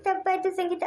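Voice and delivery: crying while saying sorry; tearful apology. Acted. Mother apologising to Sangeetha for going abroad, crying. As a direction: apologise through tears.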